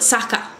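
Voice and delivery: SAKA with open A sounds, imitating Japanese; approximate Japanese pronunciation. Shown as a demonstration. Showing how the teacher's word sounded, approximate Japanese pronunciation. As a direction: say SAKA as a rough Japanese-style version of soccer. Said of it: "I can't say it right 'cause obviously I'm not Japanese".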